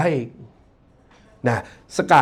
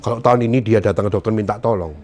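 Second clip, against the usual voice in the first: calm advice to doctor; 7 semitones lower than usual. Shown as a demonstration. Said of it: "panik ngomong".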